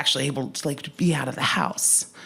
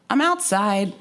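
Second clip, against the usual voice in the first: high, laughing admission; amused, sheepish punchline; laughing reveal; 5 semitones higher, 4 dB louder, slower than usual. Retold or imitated. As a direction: pitch it up and break into laughter. Comic reveal on phone, laughing.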